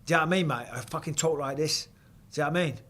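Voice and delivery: light Cockney put on over own voice; casual, matey Cockney demo; Cockney accent. Shown as a demonstration. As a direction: show off a bit of Cockney. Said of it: "do a fucking Cockney accent".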